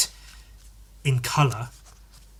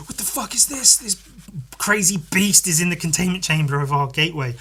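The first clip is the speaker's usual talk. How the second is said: startled scientist; 4 semitones higher than usual. Retold or imitated. Scientists voiced in comic story.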